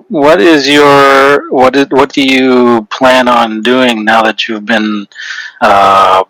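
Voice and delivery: slow, drawn-out formal questioning; in-character questioning. Acted. Player's character questions the awakened foe, slow and deliberate. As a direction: draw the words out, searching for phrasing.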